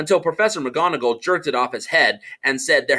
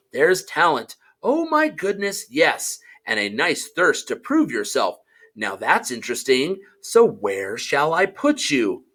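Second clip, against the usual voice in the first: small voice. Acted. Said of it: "said a small voice in his ear".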